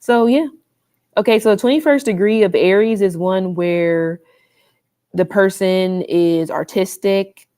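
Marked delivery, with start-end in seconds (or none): 1.2-7.5 talking with retainers in; slight retainer lisp; wearing a retainer. Real, not acted. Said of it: "I have my retainers in".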